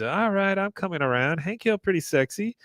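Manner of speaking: high-pitched impression of Min; character voice. Min coming around on Hank, high character voice.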